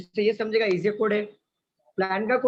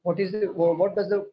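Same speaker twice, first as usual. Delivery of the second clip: slow model question; much slower than usual. Shown as a demonstration. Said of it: "जब भी आपको पूछा जाए कोड".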